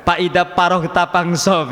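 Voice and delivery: put-on Sundanese accent, "Faida" and "faroh" said with p as "paida paroh"; slow Sundanese-accented recitation with f turned to p. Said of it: "tetap pakai logat Sunda".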